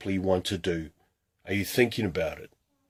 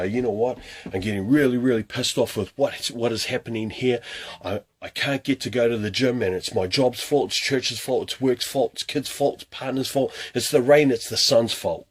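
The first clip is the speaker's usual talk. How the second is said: mock angry rant; 3 semitones higher than usual. Voicing a fed-up gym skipper blaming everything, building mock anger. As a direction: rant the excuses, getting angrier with each one. Acting out angry excuse-maker.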